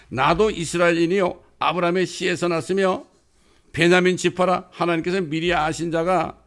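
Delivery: loud opening declamation, gradually settling; emphatic, sustained pulpit recitation; forceful scripture proclamation. Acted. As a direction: preach the verses out with urgency. Recites Paul's words at full force.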